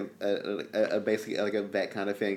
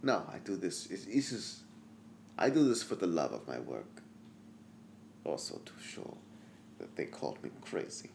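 mad doctor voice; 6 semitones lower, 13 dB quieter than usual. Acted.

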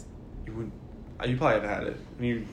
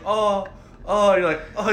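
mock groans; 6 semitones higher than usual. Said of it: "that's all you hear is".

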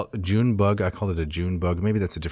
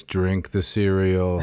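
spooky voice; slower than usual. Pretend. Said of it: "Says in a spooky voice".

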